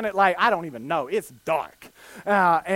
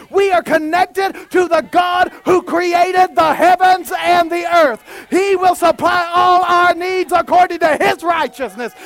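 shouted, rising preacher's call; fiery preaching; 7 semitones higher, 6 dB louder than usual. Acted. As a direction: preach it loud to the whole church. Preaching at full force.

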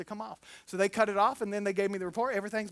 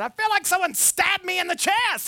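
louder, higher, exaggerated pain; emphatic complaint; 8 semitones higher, 5 dB louder than usual. Pastor telling someone how surgery felt, loud mock complaint. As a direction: sell the stab wound for laughs.

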